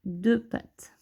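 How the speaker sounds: draws out each count of the legs; slow counting. Shown as a demonstration. Teacher slowly counting the two legs of the N. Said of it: "c'est un N".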